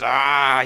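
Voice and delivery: loud, drawn-out mock roar of anger; upset growl. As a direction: imitate an enraged king's "ahh". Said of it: "he was really upset now".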